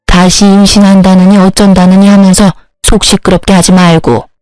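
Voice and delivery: a hint of a stern elder, evenly intoned; lightly voiced imperious mother-in-law, matter-of-fact. Mother-in-law handing over the baby, mildly stern and unmoved. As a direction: lightly play an elder laying down orders.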